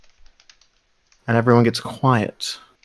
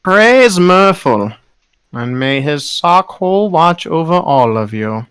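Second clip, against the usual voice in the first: preacher's blessing; 4 semitones higher, 3 dB louder than usual. Acted. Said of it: "the man turns".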